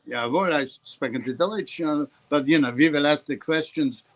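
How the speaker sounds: lightly put-on German accent; mock German accent. Actor asked to do German at an audition, mock German accent. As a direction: try a half-hearted German voice for an audition. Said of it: "Can you do German?".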